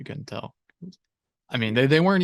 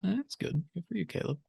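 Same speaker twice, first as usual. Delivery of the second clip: dry mock praise, pitched up; sarcastic; 5 semitones higher, 8 dB quieter than usual. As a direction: congratulate him, dripping with sarcasm. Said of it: "That, that, that sarcasm".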